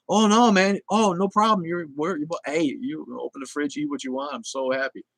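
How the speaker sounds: high, giddy voice of a thrilled father; overjoyed dad. Retold or imitated. Retelling a TV dad welcoming his daughter's boyfriend, high giddy voice. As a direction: gush it like a dad delighted to find a boy with his daughter. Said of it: "And he's like".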